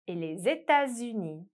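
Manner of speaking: les États-Unis with the s of les sounded as z before États; liaison demo. Shown as a demonstration. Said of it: "You only hear that S as a Z sound".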